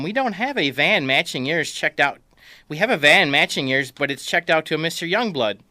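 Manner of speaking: rental clerk voice. Retold or imitated. Voicing rental clerk on phone.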